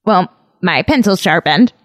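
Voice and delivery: mocking schoolkid voice; little kid. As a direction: play a self-satisfied third-grader, lightly exaggerated. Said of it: "sounded like a little kid".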